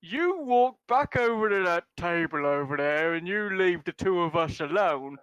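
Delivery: lightly voiced thuggish orc, pushing the words; orc bruiser. Orc warning Rev to walk away, menacing. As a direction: threaten them like a slurring brute.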